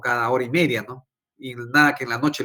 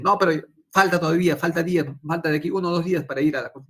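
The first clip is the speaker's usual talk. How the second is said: louder, higher and fast, brushing him off; wife's hurried protest; 4 semitones higher, 3 dB louder, faster than usual. Retold or imitated. Wife pushing back on husband about the clinic, fast loud protest. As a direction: mimic the wife insisting it's too early.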